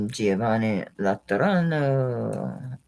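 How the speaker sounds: slow, savoured Italian Giovanni Laterano; playful Italian-accented naming. Shown as a demonstration. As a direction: roll it out like a proud Italian. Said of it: "like my, my Italian accent".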